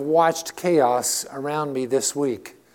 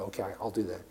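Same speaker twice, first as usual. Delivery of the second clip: small bride reply; 8 semitones lower, 14 dB quieter, faster than usual. Retold or imitated. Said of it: "He said".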